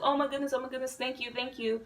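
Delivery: high, soft, breathless-style thanks; retold freaking out. Retelling a girl thanking them for the invite, mildly overwhelmed. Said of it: "because she was freaking out".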